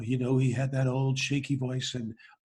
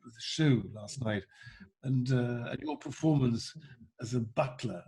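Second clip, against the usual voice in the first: Prince Charles impression; 4 semitones lower, 4 dB quieter than usual. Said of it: "He said".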